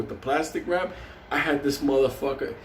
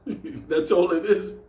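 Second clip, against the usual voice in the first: slow, drawn out; 3 semitones higher, slower than usual. Shown as a demonstration. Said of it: "repeated punchline".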